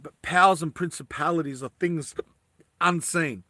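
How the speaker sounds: talking through hiccups; hiccuping between words. Real, not acted. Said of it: "Sorry, I'm hiccuping".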